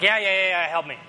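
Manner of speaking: mock-exasperated kid begging. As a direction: give up and beg for help. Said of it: "I just exasperated".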